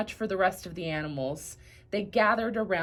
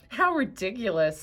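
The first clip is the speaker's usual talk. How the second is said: scoffing. Acted. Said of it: "scoffed the donkey".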